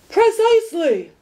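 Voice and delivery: high, loud triumphant shout. A narrator's reading. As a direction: bark the word like an alarm going off. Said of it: "shouted the dog".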